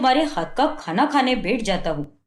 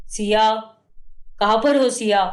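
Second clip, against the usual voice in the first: angry calling out. Acted. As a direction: summon her sharply, fed up. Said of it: "क्यों इतना गुस्सा कर रहे हो?".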